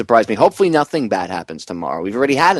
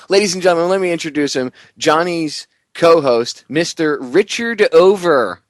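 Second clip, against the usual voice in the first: announcer voice; 7 semitones higher, 3 dB louder than usual. Pretend. Announcing the co-host like a host.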